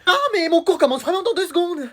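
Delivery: high-pitched urgency; panicked protest. Acted. Child about to miss class, panicked. Fils panique pour son retard.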